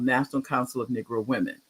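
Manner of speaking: name run together in passing; quick, casual mention of the name; said kind of fast. Real, not acted. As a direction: rattle off the organization's name. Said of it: "I said it kind of fast".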